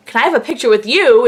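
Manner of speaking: mock-incredulous repeat in your own pitch; retold disbelief. Fan echoes the star's question back.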